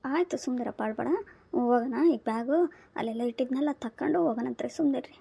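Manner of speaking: subdued, comforting reassurance; gentle soothing. Acted. Grandmother soothes crying child.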